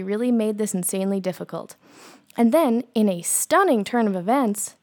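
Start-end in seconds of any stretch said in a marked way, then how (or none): 2.4-4.8 sarcastic reading. Acted. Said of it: "Tia, read that sarcastically".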